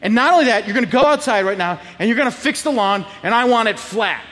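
firm, mildly cross parental orders; stern dad. Retold or imitated. Dad orders son to fix the lawn, mildly angry. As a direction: lay down the punishment firmly.

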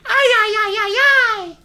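high laughing ay ay ay; flustered laughing. Real, not acted. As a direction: laugh out a string of ays.

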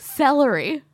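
"Celery" in three clear syllables, cel-e-ry. Shown as a demonstration. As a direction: lay out "Celery" slowly as cel-e-ry. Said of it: "It's three syllables".

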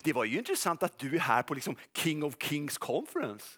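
slow, sly, low-key mocking voice; a sly devil insinuating in a soft voice; accusing devil's voice. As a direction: purr like a sneering accuser. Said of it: "kommer rösten så här ungefär".

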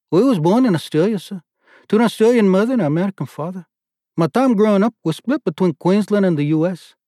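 put-on lieutenant answers the board in Australian accent. A narrator's reading. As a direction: answer crisply with Australian vowels. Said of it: "Jiff's accent had a startling effect".

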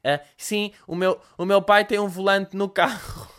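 slow, timid goody-goody voice; clueless kid trying to fit in; a hint of a naive posh boy; nerdy naive boy. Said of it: "Como se eu tivesse esta voz".

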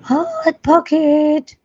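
high, breathy comedian's catchphrase voice; sing-out in a high, airy impression; Jim Gaffigan. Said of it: "like Jim Gaffigan's Hot Pocket".

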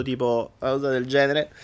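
talking through a blocked nose, just after crying; nose clogged up, voice dulled; stuffy nose. Real, not acted. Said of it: "se no parlo col naso chiuso". (naso chiuso, voce ovattata)

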